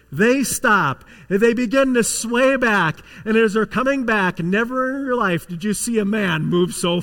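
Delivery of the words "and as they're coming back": normal talking voice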